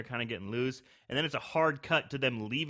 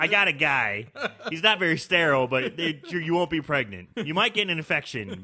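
louder, hammed-up sleazy pitch; mock shady dealer; 3 semitones higher, 8 dB louder than usual. Co-host riffing on a back-alley abortion, louder mock sleaze. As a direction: sell it like a dodgy back-alley guy.

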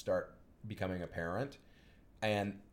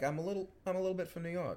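put-on light, quick New York accent; a little bit New York accent; 7 semitones higher, 4 dB quieter, faster than usual. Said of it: "she's just sort of going for".

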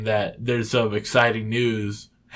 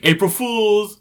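gleeful shout; 10 semitones higher, 4 dB louder, slower than usual. Retold or imitated. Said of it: "then he's like".

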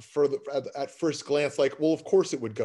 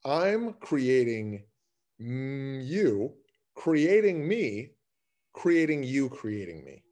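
slow echo call; much slower than usual. Acted. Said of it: "yelling into a cave and it's the echo".

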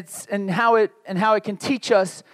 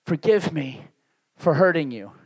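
lower, gently pleading apology; humble apology; 5 semitones lower than usual. Acted. Preacher models how to repent to someone hurt, humble apology. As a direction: lower the voice, spacing out a humble plea. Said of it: "apologize, humble yourselves, and say".

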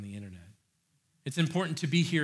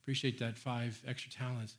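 a lukewarm, dropped-off well done; softer, shrugging praise; half-hearted thanks; flat, unimpressed; 6 dB quieter than usual. Pretend. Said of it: "When they wouldn't have been like".

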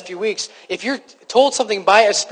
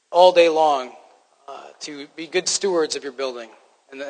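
lower, subdued praying voice; prayer; 3 semitones lower than usual. Real, not acted. Pastor praying with his congregation before the sermon, reverent prayer.

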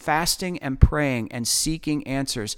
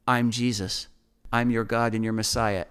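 lower, composed answer; calm; 4 semitones lower than usual. Retold or imitated. Jesus answering the angry man, calm.

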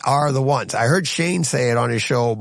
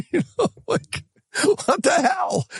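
incredulous shout. Real, not acted. Host baffled by fans arguing over box office, incredulous shout. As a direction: draw it out in disbelief. Ranting in disbelief.

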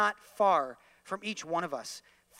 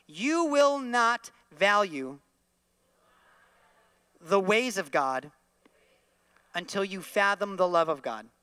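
say it out loud; 4 dB louder than usual. Shown as a demonstration. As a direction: proclaim it so people at home join in. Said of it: "Say this out loud".

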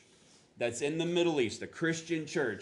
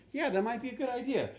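mock agreement; 10 semitones higher, faster than usual. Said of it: "people be like".

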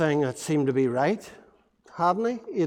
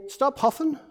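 mock mum telling off; 7 semitones higher, 5 dB quieter than usual. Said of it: "Does your mum ever say".

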